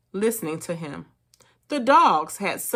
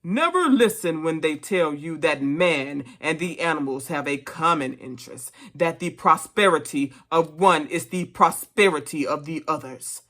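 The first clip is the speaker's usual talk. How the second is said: stirring, emphatic political speech; rally the animals with measured, solemn conviction; orator pig Major; 3 dB louder than usual. Acted.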